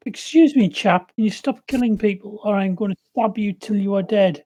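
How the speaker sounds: loud threatening warning; loud threat. Acted. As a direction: bark a threat at the singer. Threatening the singing bard.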